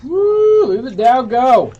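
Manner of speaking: high, loud cheer at the ticker; excited whoop. Real, not acted. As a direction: cheer the market on like a fan. Host cheering market on air.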